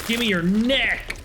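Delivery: high, drawn-out hammed-up cry; mock demand. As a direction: stretch it into a mock war cry. Mock war cry while looting body parts.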